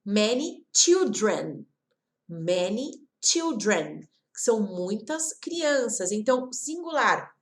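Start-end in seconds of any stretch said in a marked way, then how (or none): 0.0-4.0 put-on many children said slowly; slow model phrase for learners; slow demo. Shown as a demonstration. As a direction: spell out many children at half speed. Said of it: "aqui no caso a gente colocou many".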